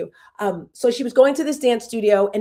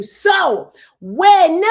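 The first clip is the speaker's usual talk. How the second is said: loud, higher burst of excitement; excited outburst; 7 semitones higher, 8 dB louder than usual. Real, not acted. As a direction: blurt it out loud and high, fired up. Building to her big dream.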